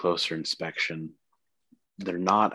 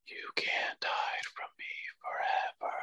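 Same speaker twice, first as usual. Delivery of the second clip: whispering; 9 dB quieter than usual. Acted. GM voices a dream voice.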